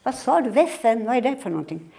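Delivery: put-on mother not understanding the boy; puzzled mother. Acted mother voice. (förbryllad mamma)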